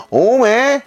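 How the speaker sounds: Jeolla-dialect 오메? with a lilting rise; proper Jeolla 오메. Shown as a demonstration. Showing viewers how a Jeolla speaker says 오메, Jeolla-dialect. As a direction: say 오메? the real Jeolla way. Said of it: "이렇게 하는 거지".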